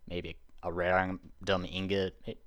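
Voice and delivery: speaking through hiccups; hiccuping. Real, not acted. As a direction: hiccups breaking the words. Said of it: "oh, sorry, I'm hiccuping".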